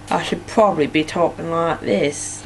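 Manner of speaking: half-hearted go at a Norfolk accent; unconvincing Norfolk accent; attempted Norfolk accent. Shown as a demonstration. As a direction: try a Norfolk accent, not quite getting it. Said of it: "I can't do a Norfolk accent".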